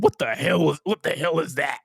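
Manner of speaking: imitating drunk uncle. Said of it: "he sound like a drunk uncle".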